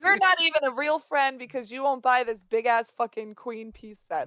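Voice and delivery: a hammed-up offended shopkeeper; mock angry villager. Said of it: "they would be like".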